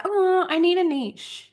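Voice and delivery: high, slow mock whine; playing her own old panic about finding a niche, slow; mocking her past self. Ranting podcaster mocking her past self in a high, slow whine. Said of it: "I was like".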